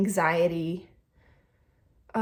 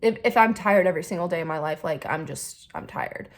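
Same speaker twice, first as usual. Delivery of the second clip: dismissive shrug-off fading to whisper; 2 semitones lower than usual. Retold or imitated. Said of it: "sweep it under the rug and be like".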